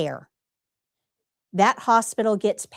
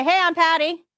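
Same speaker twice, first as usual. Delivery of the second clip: mock casual greeting; 7 semitones higher than usual. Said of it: "It's not enough for me to walk in and say".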